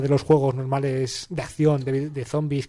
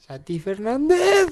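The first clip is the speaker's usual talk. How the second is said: silly put-on voice, high and drawn out; voz estúpida; 9 semitones higher, slower than usual. Shown as a demonstration. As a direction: stretch it slowly in a daft, high impression. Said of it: "poniendo voces al azar en plan estúpido". (voz tonta, aguda y alargada)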